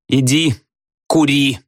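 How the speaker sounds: exasperated yell; desperate shout. A narrator's reading. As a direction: fling it at him in despair. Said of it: "с отчаянием крикнула Надя".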